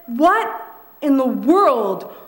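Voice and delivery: imitating the husband, a touch of disgusted attitude; mock the boyfriend's appalled question, drawn out. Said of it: "he said it with a lot of attitude".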